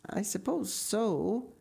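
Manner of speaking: slow, musing agreement; thoughtful. A narrator's reading. Mrs Spencer considers Marilla's question, slow and thoughtful. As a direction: draw it out while thinking. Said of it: "said Missus Spencer thoughtfully".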